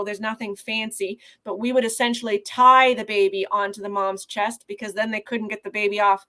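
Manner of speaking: ordinary delivery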